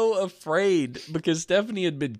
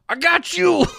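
supportive friend voice; 6 dB louder than usual. Pretend.

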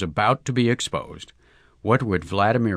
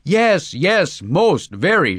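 high, loud burst of delight; enthusiastic shout; 7 semitones higher, 4 dB louder, much slower than usual. A narrator's reading. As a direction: shout it out with joy. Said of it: "shouted Vladimir Brusilov enthusiastically".

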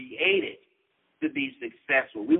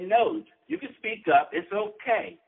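reassuring; 6 semitones higher than usual. Retold or imitated. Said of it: "she just reassured me".

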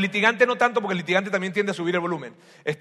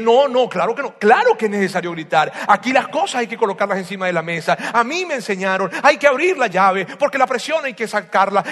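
insistent loud retort; 2 semitones higher, 5 dB louder than usual. Acted. Shouter defends shouting.

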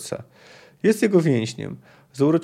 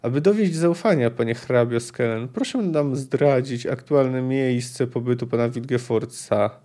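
drawling. Acted. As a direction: stretch the syllables out deliberately. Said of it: "przeciągał sylaby Leuwarden".

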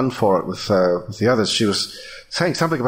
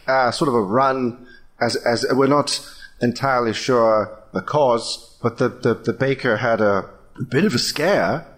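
a lightly put-on British innkeeper; hesitant, polite British patter; a hint of a British accent. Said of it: "Wow, really British".

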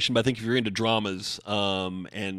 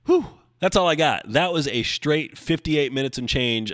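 relieved whew; 5 semitones higher, 4 dB louder than usual. Real, not acted. Relief after long monologue.

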